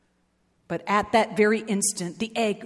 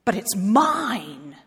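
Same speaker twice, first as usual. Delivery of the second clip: mild mock scream; slower than usual. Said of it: "screamed the bird".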